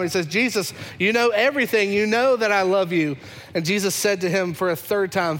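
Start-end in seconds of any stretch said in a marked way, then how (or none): 0.3-3.2 Peter exasperated, raised pitch; irritated disciple pleading he loves him; annoyed. Acted. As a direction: snap back at Jesus in frustration. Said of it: "he gets super annoyed with Jesus".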